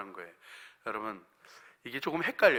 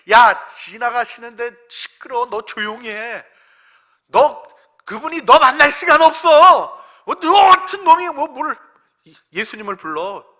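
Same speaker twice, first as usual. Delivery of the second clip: loud, raised voice hushing someone; acted scolding; 10 semitones higher, 14 dB louder than usual. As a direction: play an irritated crowd shouting him down. Acts crowd scolding Bartimaeus.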